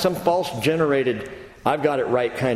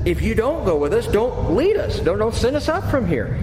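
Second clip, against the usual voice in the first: Moses raised high, urgent and insistent; pleading Moses; 7 semitones higher than usual. Retold or imitated. Moses insisting to God that they won't go without him, urgent. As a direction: beg him not to send you alone. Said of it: "Moses turns around and says".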